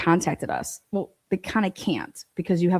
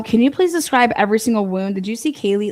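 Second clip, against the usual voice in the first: mocking reporter question; 3 semitones higher, 4 dB louder than usual.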